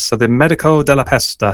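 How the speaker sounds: attempted Italian accent. A quiz host names a Venetian mask for a true-or-false round, in an attempted Italian accent. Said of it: "I'll try and do my best Italian accent there".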